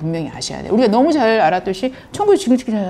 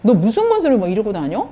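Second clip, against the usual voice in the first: mock challenge, slightly raised pitch; retold confrontation; 2 semitones higher than usual. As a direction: imitate leaders demanding an explanation. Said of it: "막 예수님한테 이렇게 따지는 거예요".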